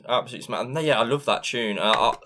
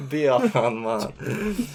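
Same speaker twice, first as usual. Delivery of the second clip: mock Jamaican accent; 2 semitones higher, much slower than usual. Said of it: "More like".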